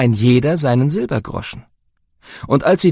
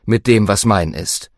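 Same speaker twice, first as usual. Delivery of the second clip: Jesus speaking. Acted. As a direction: speak as a gentle teacher. Jesus voiced in reading.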